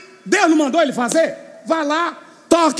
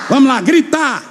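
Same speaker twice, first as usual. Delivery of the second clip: shout. Shown as a demonstration. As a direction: lead them by shouting "gritar". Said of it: "Vamos, diga bem forte".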